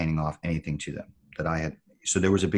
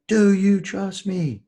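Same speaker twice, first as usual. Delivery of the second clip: very high, loud, slow shout; retold full yell; 7 dB louder, much slower than usual. Gunnery sergeant yelling again at the hesitating recruit, slow loud shout. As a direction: scream it at him slowly, word by word. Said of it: "he yelled at me again".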